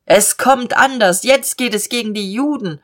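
mild shout to someone in a crowd; calling out. Acted. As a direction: call it across urgently. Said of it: "schreit ihm zu".

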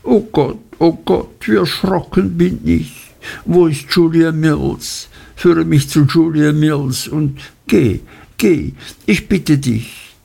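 put-on high, alarmed girlish pleading; young woman's high frightened plea; frightened exclaiming. A narrator's reading. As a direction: Dora cries out in fright, begging. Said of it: "konnte die arme kleine Dora bloß ausrufen".

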